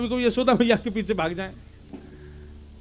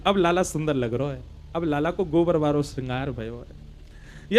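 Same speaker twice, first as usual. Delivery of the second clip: cow's voice; 7 semitones lower, 5 dB quieter than usual. Acted. The cow speaks in the story.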